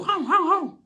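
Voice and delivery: high mock barking; cat forced to bark like a dog, playful imitation. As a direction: yap it like a pretend dog.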